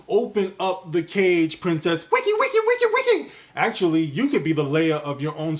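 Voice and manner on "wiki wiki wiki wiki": very high squeaky "wiki wiki" scratch sound; record scratch chant. Pretend. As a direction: imitate a DJ scratch with the voice.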